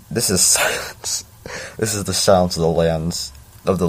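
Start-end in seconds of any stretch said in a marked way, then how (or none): 0.1-1.2 whispered through a laugh. Real, not acted. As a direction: giggle it under your breath.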